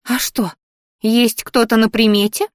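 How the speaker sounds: the grumpy flower scolding Melissa in a high whiny wail; grumbling flower. Acted. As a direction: lament like a fussy old plant. The flower's sudden curiosity.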